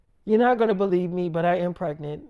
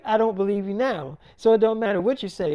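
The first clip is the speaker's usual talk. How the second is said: mildly heated, louder retold scolding; acted argument; 3 semitones higher, 4 dB louder than usual. Mother refusing to believe her daughter, acted exasperation. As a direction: voice a mother digging her heels in.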